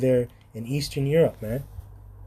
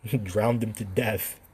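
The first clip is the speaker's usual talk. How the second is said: slow, softer line through a chuckle; laughing softly; slower than usual. Real, not acted. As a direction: quieter chuckling take. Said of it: "I'm not laughing in a very sinister way".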